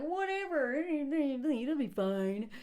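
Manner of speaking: lazy, drawn-out shrug of a line, very slow; dismissive Jackson. Retold or imitated. Jackson waving off the worry, drawled and dismissive. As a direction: brush it off like nothing matters. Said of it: "Jackson's all like".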